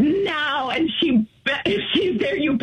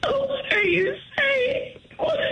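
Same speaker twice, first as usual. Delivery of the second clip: slow, high crying outburst; crying out in shock, slowly; sobbing disbelief; 8 semitones higher, slower than usual. Real, not acted. Wife hears it's over.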